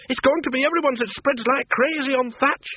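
put-on high, pressing old woman voice; urgent woman. Miss Flitworth argues with Bill, high and urgent. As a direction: press the danger on him.

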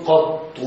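"قط" with a-vowel, held ta, final u; fatha, doubled ta, damma. Shown as a demonstration. Teacher repeating the most eloquent form, "قط" pronounced qattu. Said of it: "بفتح القاف وتشديد الطاء مع الضم".

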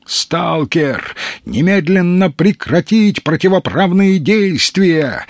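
official yelling. A narrator's reading. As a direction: order the stalker to stop at once. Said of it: "заорал Мазур".

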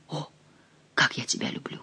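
very soft, low whisper; loving whisper. Acted. Diana declaring love to her beloved at night, loving whisper. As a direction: whisper it as an intimate confession.

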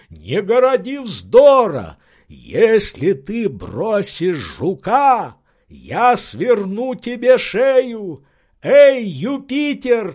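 high, loud, slow threats; threatening Legrand. Acted. Legrand threatening his servant over the beetle. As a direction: threaten him, heated.

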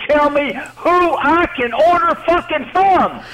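heated, slowed final words; furious rant. Real, not acted. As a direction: spits out the swearing in a rage. Heated shouting match on phone.

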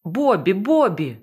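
loud calls of the name; yelling. Acted. Panicking captain yelling for Bobby, loud call. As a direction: holler for help. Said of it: "чимтуж горлала я".

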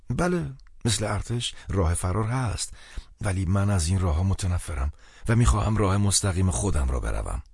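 a hint of a worried, apologetic friend; lightly voiced anxious friend.

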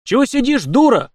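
loud, high angry scolding; scolding yell. A narrator's reading. Efim yells angrily at the sitting housewife. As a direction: lay into her at the top of the voice. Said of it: "напустился казак на хозяйку дома".

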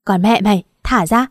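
a moderate angry roar; lightly voiced angry roar. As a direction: bellow the order to let go. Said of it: "cuối cùng gầm lên".

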